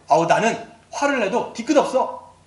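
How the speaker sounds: lightly acted brash self-excuse; a touch of a hothead, pushed a little; hot-tempered type. Hot-tempered people excusing their outbursts, lightly brash. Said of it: "다혈질인 분들이 막 얘기하죠".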